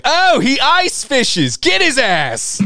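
high, drawn-out mock war cry; rally the mob against the Canadian; hammed-up high-pitched yelling. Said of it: "They're like".

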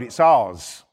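ordinary delivery

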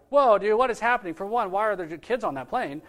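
a touch of incredulous alarm; imagined shock. Acted. Public reacting to news of a plane full of kids, imagined shock.

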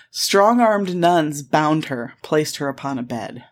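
slow, weighty quoted reading; deliberate quote reading. Retold or imitated. Podcaster quoting a lurid article to her co-host, slowly and deliberately. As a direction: linger over each word of the quote.

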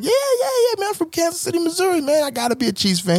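high, eager white-guy voice. Retold or imitated. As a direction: put on a cheery white tone. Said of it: "I'm delivering it in a white tone".

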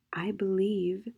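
whispered, slow; very quietly. Acted. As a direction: breathe it out in a whisper. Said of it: "said Peter very quietly".

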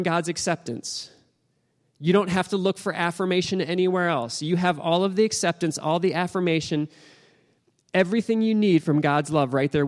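urgent, lifted sermon delivery; impassioned preaching. Real, not acted. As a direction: preach it as a heartfelt, driving appeal.

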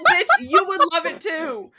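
high, loud laughing comeback; laughing retort. Real, not acted.

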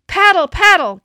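loud, high urgent yell. A narrator's reading. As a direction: drive the team on. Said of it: "Kelsey yelled".

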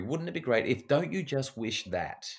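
dreamy, drawn-out longing; slow, musing "don't you just wish"; slow wistful wish. Shown as a demonstration. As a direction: draw out the wish slowly. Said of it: "that statement draws a very clear boundary".

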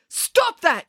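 high-pitched yelled order; sharp, high shout. A narrator's reading. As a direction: yell it to break up a fight. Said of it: "yelled Daisy Odensdotter".

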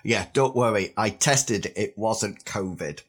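husky, slightly hoarse voice from a sore throat. Real, not acted. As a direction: speak with a husky, recovering throat. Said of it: "if I sound a little bit husky".

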